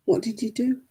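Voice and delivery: whispered, gently asking; soft whisper. Retold or imitated. Grandmother asking a crying grandson, whispered. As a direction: hush it to the child. Repeats question softly.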